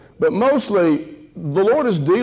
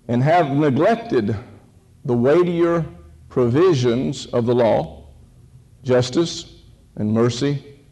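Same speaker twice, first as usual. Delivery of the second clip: scripture reading. Real, not acted. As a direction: read the verse out with weight, pausing after each phrase. Reads the verses aloud.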